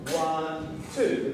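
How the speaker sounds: ONE drawn out, then TWO as a separate beat; two syllable count. Shown as a demonstration. Teacher showing students a split technique, ONE and TWO dragged apart. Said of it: "which is slowing you down".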